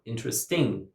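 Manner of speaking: "interesting" as in-tres-TING; wrong final stress. Shown as a demonstration. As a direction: push the last syllable of "interesting". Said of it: "would never say".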